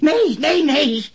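high, loud frantic nos; panicked denial. Acted. Suspect to interrogator, panicked loud denial. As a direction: recoil in panic, voice shooting up. Suspect cornered by lewd questions.

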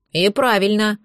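lightly voiced grumbling dragon; a hint of a grumpy little dragon. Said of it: "проворчал липучка".

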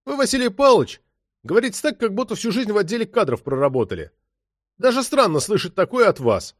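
put-on young detective snapping sarcastically at his boss; sarcastic, offended. A narrator's reading. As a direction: needle the chief with a wounded sneer. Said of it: "брякнул язвительно и с обидой".

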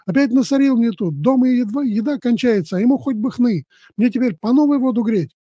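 a wife lashing out at him, lightly voiced; mild scolding rant. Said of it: "а та и набросилась".

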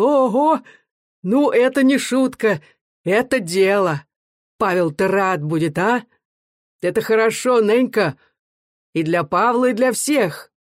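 bursting with glee at her news; joyful shouting. Acted. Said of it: "радостно кричал".

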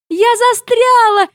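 high, slow shriek. Retold or imitated. Stuck on the roof, shrieking at the laughing family. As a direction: squeal it out in panic. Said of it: "верещу я".

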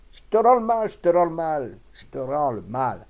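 high, loud curse that drops in pitch; furious shouting. A narrator's reading. Farmer still beating Rabalan, furiously shouting the same curse. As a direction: start at a full yell, repeat relentlessly. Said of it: "Maître Bottreau continua".

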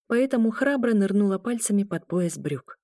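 usual speaking voice

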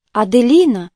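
usual speaking voice

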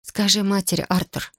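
plain reading voice

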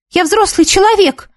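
high, shrieking outburst; hysterical cry. A narrator's reading. Girl screaming at the caring teacher, hysterical. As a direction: snap back hysterically. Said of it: "истерически крикнула Нина".

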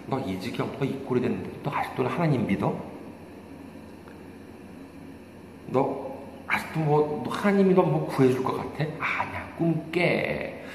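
hushed, sly tempter's voice, lightly acted; insinuating whisper. Satan tempting a believer in hardship, hushed insinuation. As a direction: murmur doubt into a believer's ear, softly. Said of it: "항상 우리 귀에다 대고 속삭입니다".

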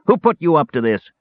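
high dwarf shriek; shrill shriek. Acted. Dwarf demands who is behind it, high shriek. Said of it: "rose to a shrill shriek".

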